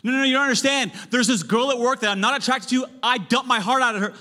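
high, loud whiny objection; protesting congregant. Pretend. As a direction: whine back like a defensive listener. Imagined congregant objecting again.

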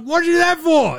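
hammed-up Kevin complaining; mock whine. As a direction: squeal like a wronged kid. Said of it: "He's like".

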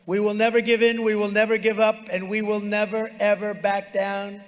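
loud, rising campaign refrain; rally them, voice lifted; roaring rallying speech. Real, not acted. Rally refrain over the crowd.

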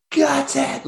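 very high celebratory mock yell; retold wild cheer at the final whistle; losing his mind. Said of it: "I was losing my mind going".

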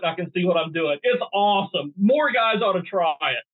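mock-impressed, playful sales pitch; sarcastic. Real, not acted. Hunter touting a flashlight as a tremendous invention, sarcastic. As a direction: lay on the praise with tongue in cheek. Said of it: "obviously you're being a little sarcastic".

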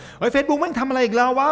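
high, loud, slow mock complaining whine; mock rant. Host mocks people who whine about Facebook, high and loud. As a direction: ham up a grumbling user's outburst. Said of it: "เห็นคนชอบบ่น".

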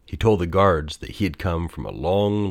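usual speaking voice

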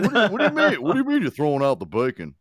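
high, loud, incredulous laughing whine; husband hammed up as outraged; mock outraged husband. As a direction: squeal in disbelief over the bacon. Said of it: "He was like".

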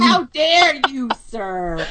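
indignant put-on British scolding; mock British accent. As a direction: play up a British affront, dragging it out. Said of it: "You sound kinda British there".

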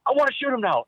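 high, whiny mock of the wife; wife now begging to shoot the buck, high mock whine; imitating eager wife. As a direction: pitch it up like she's pleading. Wife suddenly wants shot.

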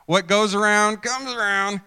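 loud told-you-so up in pitch; smug saying. Acted. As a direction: declare it openly, high and loud. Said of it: "we usually say that behind somebody's back".

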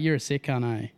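"sick cunt, eh" slurred into one friendly Aussie word; run-together Aussie slang. Shown as a demonstration. Aussie teaching friends the nicest way to say it, words run together. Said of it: "say it in the nicest way possible".

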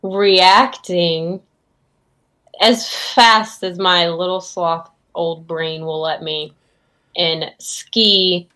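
halting old sloth, lightly voiced; in-character elderly sloth. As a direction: play a slow-witted old sloth with long pauses. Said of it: "I'm trying to talk in character".

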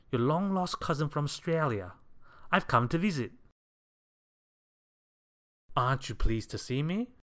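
high, loud, jolly and oblivious; eager, lilting cheerful visitor; Mister Clumsy, cheerful. A narrator's reading. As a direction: greet a relative with breezy delight. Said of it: "continued Mister Clumsy cheerfully".

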